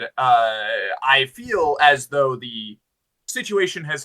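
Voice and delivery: lightly voiced, formal and deliberate warrior; gallant fighter. Fighter addressing companions about retaking the town, lightly acted solemn bravado. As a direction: declaim it with measured emphasis, stretching key words. Player speaks in character.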